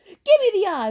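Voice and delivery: high, loud crone wail; wailing witch; hag wail. Acted. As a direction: plead for the eye. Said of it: "Wasp wailed".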